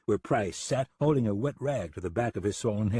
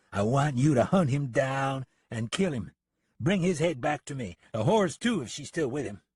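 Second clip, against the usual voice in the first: mildly heated order, pitched higher; a hint of a vengeful lawman; lightly voiced angry deputy; 5 semitones higher than usual. Deputy orders gunman to hunt a man, mildly angry.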